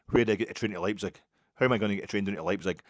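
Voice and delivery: half-hearted imitation of an angry fan demanding directions; mild mock aggression; mock aggressive demand. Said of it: "he's asking me aggressively".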